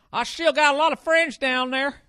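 squeaky loud whiny impersonation of the washed-up player; mocking the player. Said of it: "You think he's gonna go back to Tennessee?".

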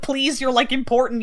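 mock pleading. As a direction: plead with him, playfully hammed-up. Acting out pleading with Ken.

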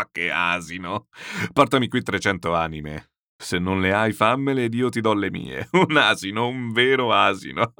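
hearty general talking between bursts of laughter; guffawing. Acted. General calling the uncle an ass, guffawing. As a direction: laugh it out, relishing each insult. General still roaring at the joke.

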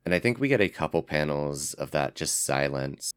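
ordinary talk

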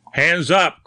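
sharp, high-pitched command; hoarse cry. A narrator's reading. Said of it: "cried Grimsby hoarsely".

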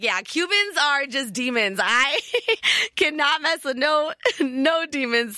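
high, laughing mock declaration; laughing as you swear off Cubans; laughing mock verdict. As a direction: declare it through giggles. Joking, laughing, about Cubans being demons.

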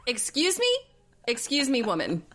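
incredulous. Retold or imitated. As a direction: challenge her in exaggerated disbelief. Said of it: "And you're like".

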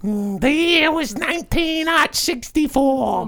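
lightly voiced Brooklyn mobster; Brooklyn accent. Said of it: "Why do you talk like that?".

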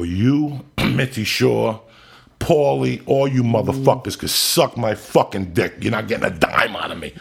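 loud, high, slow retold rant, cursing out the bosses; retold furious rant. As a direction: relive the blow-up at full volume.

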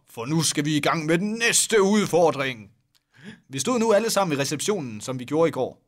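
normal talking voice

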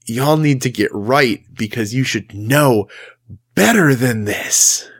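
angsty rebuke through teeth. Acted. Jesus talking to the religious leaders, angst-filled rebuke. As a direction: scold them through gritted teeth. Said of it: "the angst and the, the back of the teeth".

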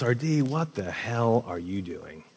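slow, softened, weighted question, imitating a friend; friend's grave confrontation. Best friend confronting roommate about his girlfriend, slow and grave. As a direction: draw the question out slowly, without shouting. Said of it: "the way he said it".

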